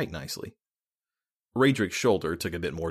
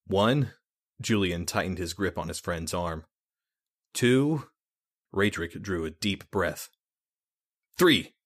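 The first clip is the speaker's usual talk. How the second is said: tense countdown; slower than usual. Acted. Counting down before painful push.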